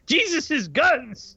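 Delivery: slow, drawn-out disbelief; incredulous. Real, not acted. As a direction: stretch it out in disbelief. Incredulous repeat of absurd quote.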